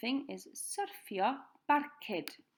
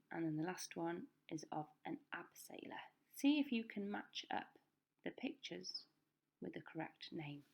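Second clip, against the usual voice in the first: whisper; 5 dB quieter than usual. Real, not acted. Teacher whispering instructions.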